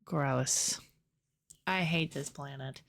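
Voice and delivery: exasperated rant. Real, not acted. Ranting about hated planet.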